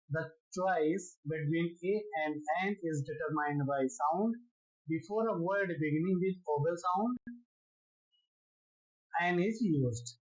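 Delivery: very slow, word by word, rule read aloud; slow dictation. Shown as a demonstration. Teacher dictating the rule to students, very slow. Dictates English grammar rules.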